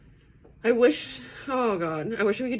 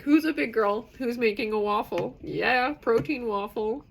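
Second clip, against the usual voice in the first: lightly voiced cooing cheerleader, higher pitch; playful, raised-pitch self-encouragement; self pep talk; 4 semitones higher, 4 dB louder than usual. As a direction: hype yourself up as if praising a small child. Baby-talks herself through making a meal.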